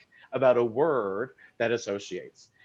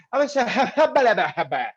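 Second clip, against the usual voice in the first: garbled babble; 7 semitones higher, 5 dB louder than usual. Retold or imitated. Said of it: "You're like".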